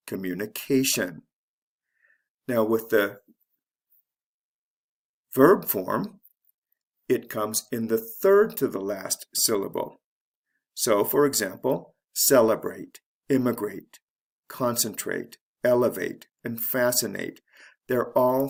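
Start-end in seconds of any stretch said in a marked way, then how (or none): 0.1-1.2 "communication" as communi-CA-tion; second-to-last syllable stressed. Shown as a demonstration. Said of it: "it's the second to the last syllable". 12.1-17.4 first syllable stressed in each, like "celebrate" as CEL-e-brate. Shown as a demonstration. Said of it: "is actually the first syllable of these words".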